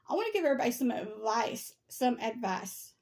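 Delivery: talking while chewing gum. Real, not acted. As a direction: gum in the mouth as she talks. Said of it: "Sorry, I got gum in my mouth".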